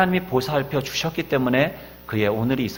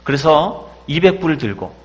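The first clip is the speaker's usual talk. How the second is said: loud, higher, desperate prayer to God; crying out in prayer; 4 semitones higher, 7 dB louder than usual. Retold or imitated. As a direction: pour it out as a desperate cry to heaven. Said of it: "부르짖어 기도합니다". (하나님께 절규하듯 높고 크게 부르짖는 기도)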